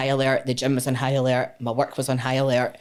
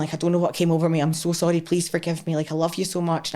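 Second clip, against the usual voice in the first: raised pleading voice, a hint of the ex; pleading apology; 4 semitones higher than usual. Ex begging her forgiveness the morning after, pleading. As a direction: mimic his begging apology, pitched up.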